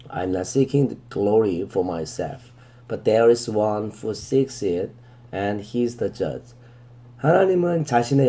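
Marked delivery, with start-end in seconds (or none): 0.1-6.5 very slow, deliberate verse reading, word by word; slow scripture reading. Shown as a demonstration. Teacher reading the verse to students, very slow and deliberate. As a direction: read it out slowly so students can follow.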